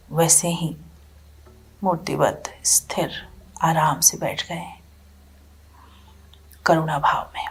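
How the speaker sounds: calm, spacious phrases with long pauses; guided meditation. Real, not acted. Teacher guiding listeners from anger toward compassion, calm meditation guidance. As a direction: guide them inward, leaving silence after each phrase.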